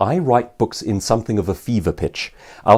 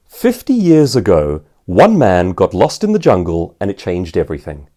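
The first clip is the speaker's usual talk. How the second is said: dramatic story opening; 2 semitones lower, 4 dB louder than usual. Shown as a demonstration. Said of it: "you walk onto a stage and you say".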